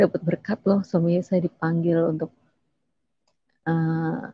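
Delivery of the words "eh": ordinary talk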